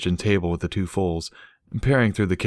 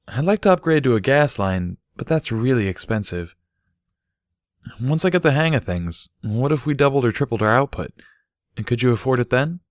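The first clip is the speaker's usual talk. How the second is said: slightly higher, eager questions; lightly voiced Bucky; 5 semitones higher than usual. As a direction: pitch the idea hopefully. Bucky proposes upgrades.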